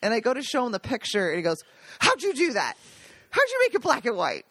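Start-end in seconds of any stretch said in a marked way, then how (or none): 2.0-4.4 imitating a baffled question, pitched higher; retold amazement. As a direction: marvel at it like a puzzled relative. Retold amazed reaction to photo.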